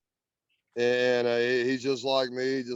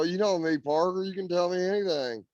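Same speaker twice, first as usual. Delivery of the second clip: higher-pitched retold reassurance; retold coaxing; 6 semitones higher than usual. Storyteller replays urging Parker to confide in him, coaxing. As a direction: coax a friend to open up, voice lifted.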